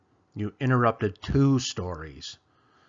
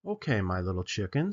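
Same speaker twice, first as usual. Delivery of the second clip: Papa's voice; 4 semitones lower than usual. Acted. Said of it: "said Papa".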